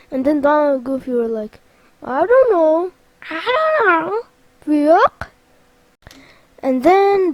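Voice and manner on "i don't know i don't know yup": silly put-on cartoon voices; higher, hammed-up sidekick voices. Donald and Goofy answering Sora, cartoon voices.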